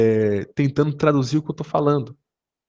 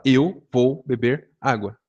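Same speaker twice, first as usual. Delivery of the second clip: slow Brazilian version; 3 semitones lower, much slower than usual. Retold or imitated. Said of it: "O brasileiro fala".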